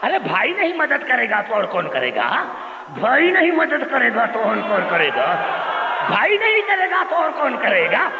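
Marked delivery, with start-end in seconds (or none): 2.9-8.1 building preaching shout. Real, not acted. Repeating slogan, building louder.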